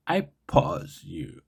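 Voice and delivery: slow, deliberate first try at the joke line; a slow, tentative first go at the line. Shown as a demonstration. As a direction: say it slowly, testing the joke. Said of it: "I can do better".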